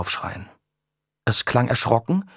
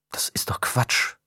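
grumbled. A narrator's reading. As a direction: grumble it half to yourself, unconvinced. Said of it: "murrte Charlotte".

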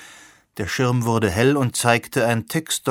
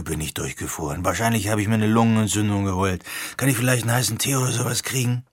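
lightly voiced cold, dismissive young man; a hint of a grumpy know-it-all; Root's voice. Root voiced lower.

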